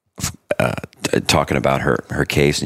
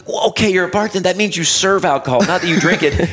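sarcastic judge; 13 semitones higher than usual. Retold or imitated. Judge lecturing, retold high.

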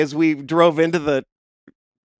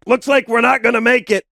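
calm deadpan; 5 semitones higher than usual. Retold or imitated. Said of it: "Josh calmly is like".

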